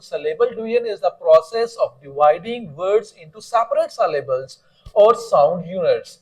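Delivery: deliberate classroom read-aloud; slow textbook reading. Acted. Teacher reads the definition to students, slow and deliberate.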